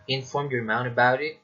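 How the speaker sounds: statement turned question, lifting on "about it"; rising intonation. Shown as a demonstration. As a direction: let the pitch climb through "about it". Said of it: "it rises towards the end".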